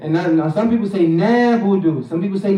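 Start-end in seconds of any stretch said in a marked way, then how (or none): 1.1-2.0 "نعبد" with plain long "naa", no ayn; missing ayn. Shown as a demonstration. Teacher showing some people's mistake, "نعبد" without ayn. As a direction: glide over the throat sound in "نعبد". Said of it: "we want ayn".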